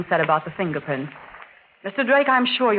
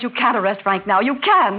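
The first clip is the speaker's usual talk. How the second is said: excited. Acted. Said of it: "You mustn't get excited".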